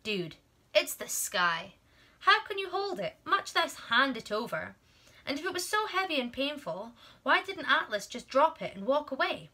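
incredulous, doubtful listener voice; skeptical listener. Pretend. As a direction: voice the reader's disbelief. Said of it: "You're probably thinking".

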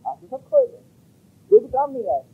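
high, loud mocking cry of victory; triumphant taunt. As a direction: throw it at the defeated enemy, exulting. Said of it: "उनको वो कायल कर सके कि कहाँ गए".

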